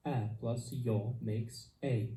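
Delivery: A plus yo makes I, drawn out slowly with I gliding; teacher modelling slowly for learners, clear and drawn out; slow diphthong demo. Shown as a demonstration. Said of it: "Diphthongs are an important part of Esperanto pronunciation".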